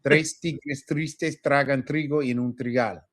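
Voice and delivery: Tres tigres tristes tragan trigo en un trigal in even Spanish syllables with crisp t sounds; practising T sound. Shown as a demonstration. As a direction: demonstrate the tongue twister, articulating each t in Tres tigres tristes. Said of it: "we're working on that T sound".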